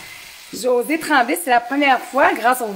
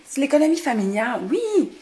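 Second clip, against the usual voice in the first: excited eureka; 4 semitones higher than usual. Real, not acted. Remembering the class name.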